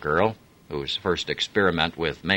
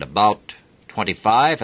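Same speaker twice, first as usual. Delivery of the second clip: a hint of a dutiful driver, higher; deferential chauffeur; 5 semitones higher, 6 dB louder than usual. Chauffeur reporting to the Major, lightly voiced deference. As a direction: answer the officer respectfully.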